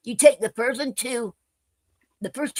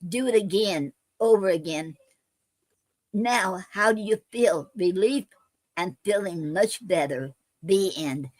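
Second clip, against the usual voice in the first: poem reading. Acted. Reads her Fib poem aloud.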